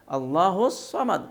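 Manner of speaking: "الصمد" slow, with heavy rounded s; thick saad. Shown as a demonstration. Teacher modelling the verse, slow thickened saad. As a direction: recite "الصمد" as "as-sawmad", slowly. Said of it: "صاد سے ادا کرنا ہے".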